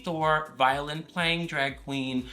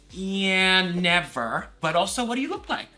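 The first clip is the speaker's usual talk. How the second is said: higher, louder defiant comeback; retold sassy refusal; 4 semitones higher, 4 dB louder than usual. Refusing caller's screen-share request, defiant. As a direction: replay a confrontation with rising sass. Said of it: "I got, like, really, like".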